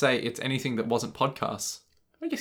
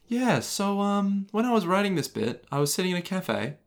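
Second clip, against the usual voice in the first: author impression; 5 semitones higher than usual. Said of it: "they're just like".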